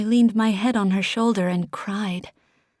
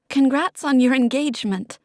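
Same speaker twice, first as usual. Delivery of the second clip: voice breaking; 5 semitones higher, 4 dB louder than usual. Acted. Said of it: "my voice broke".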